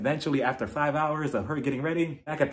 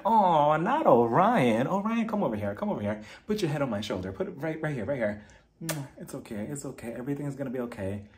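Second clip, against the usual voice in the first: mock tender comfort. Comforting a crying cast member.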